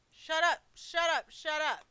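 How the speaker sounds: repeated loud angry yell; furious shout. Acted. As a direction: explode at her. Husband explodes.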